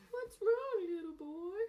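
put-on high pinched kid voice. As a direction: squeeze it up like a child. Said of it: "Show us your kid voice".

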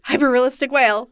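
happy announcement; excited. Retold or imitated. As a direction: say it cheerfully. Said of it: "really happy".

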